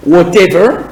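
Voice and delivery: British "whatever" with a crisp T; British English pronunciation of "whatever"; British accent. Shown as a demonstration. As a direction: say "whatever" the British way, T fully sounded. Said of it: "accent britannique".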